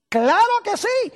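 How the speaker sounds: high, loud and slow; emphatic exclamation. Real, not acted. Preacher answering his own question, loud and slow. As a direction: proclaim it with full force.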